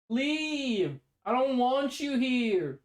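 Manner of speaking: a lightly imitated Australian accent telling the bee to leave; shooing a bee out in a mock Australian accent; Michael Cusack voice. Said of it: "it's speaking like Michael Cusack".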